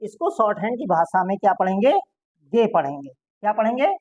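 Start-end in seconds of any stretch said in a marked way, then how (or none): 2.5-2.7 गे said as ge with a hard g, not gee; name the letter गे with a hard g; shorthand letter name. Shown as a demonstration. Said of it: "इसको जी नहीं पढ़ते हैं".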